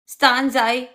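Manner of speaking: slow, then loud Afrikaans-flavoured phrase; playful Afrikaans slang demo; Afrikaans accent. Shown as a demonstration. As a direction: switch fully into Afrikaans mode. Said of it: "I can change it up completely and say".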